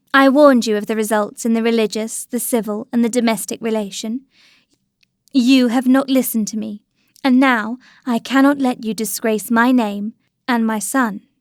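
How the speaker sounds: ordinary delivery, nothing marked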